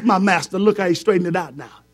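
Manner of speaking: rising preacher's call; preaching. Acted. Preacher retelling Aaron's plea, lifted. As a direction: preach it out to the church.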